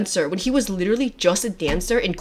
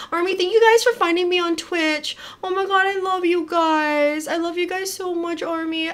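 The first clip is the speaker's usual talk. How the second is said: high-pitched, heartfelt gush; gushing affection; 8 semitones higher than usual. Real, not acted. Streamer thanking fans who found her, gushing affection.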